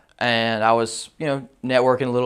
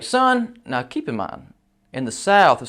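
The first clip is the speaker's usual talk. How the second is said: condescending son; 3 semitones higher than usual. Retold or imitated. Condescending manager calls him son.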